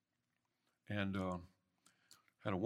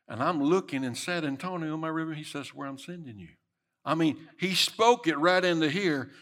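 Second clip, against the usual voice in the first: preaching shout; 5 semitones higher, 8 dB louder than usual. Acted. Preaching climax.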